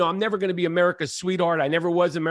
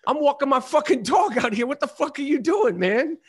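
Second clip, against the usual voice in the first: higher, heated telling-off; angry scolding; 5 semitones higher than usual. Retold or imitated. Telling off a fan who ran at him, heated. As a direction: scold the stranger hard. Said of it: "I was like".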